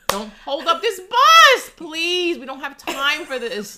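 loud, high and drawn out; playing an annoyed passenger at full volume; mock impatient yell. Acting out a bus rider yelling at a wheelchair user, loud mock.

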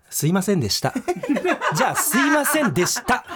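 giggling through a fake sorry; laughing mock apology.

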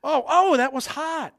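put-on high, wide-eyed childish voice; curious kid. Kid testing mom's warning, high and disbelieving. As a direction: play a kid amazed the stove is hot. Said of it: "and you're a kid, and you go".

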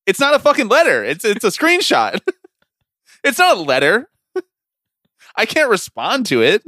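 high, loud laughing rant. Real, not acted. Ranting about the screenshot.

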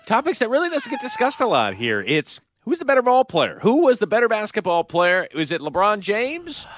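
brisk sports show host intro, lightly hammed; a touch of announcer voice; mock TV host. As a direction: open the show like a debate program host.

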